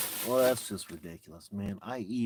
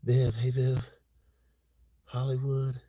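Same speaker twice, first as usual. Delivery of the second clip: higher, louder happy hello; excited greeting; 4 semitones higher, 7 dB louder than usual. Real, not acted. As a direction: call out to a friend arriving. Greeting viewers joining the stream.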